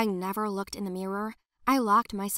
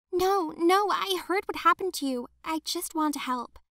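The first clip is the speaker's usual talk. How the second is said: much higher, anxious pleading voice; pleading girl; 8 semitones higher, 3 dB louder than usual. Acted. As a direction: beg to be heard, hands up.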